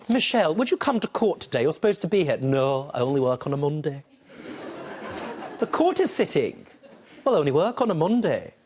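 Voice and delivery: lightly voiced clerk and stubborn Michelle; mock exchange. Judge mocking a court exchange with Michelle, lightly voiced. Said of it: "That's not how she sounds".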